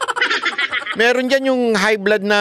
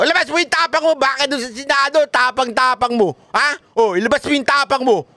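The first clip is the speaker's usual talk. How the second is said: mocking taunt; 5 semitones higher than usual. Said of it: "Kay, kay Grijaldo".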